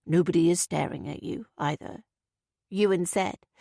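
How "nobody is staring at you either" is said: lower, softer soothing tone; calm her down patiently. Acted. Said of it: "his tone as soft and patient".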